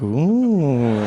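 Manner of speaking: drawn-out intrigued ooh; impressed ooh. Retold or imitated. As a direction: let out a long impressed ooh. His impressed reaction to the line.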